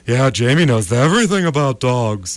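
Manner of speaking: put-on very low, drawn-in creepy baby talk; creepy cooing. Dog sitter insisting he knows dogs, low and creepy. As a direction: drop right down and croon to the dog.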